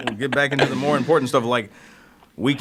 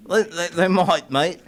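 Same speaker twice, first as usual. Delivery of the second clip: hint of a jokey Australian accent, slower; 5 semitones higher than usual. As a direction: drawl mate in a mock Australian accent. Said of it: "I don't know why I'm doing an Australian accent".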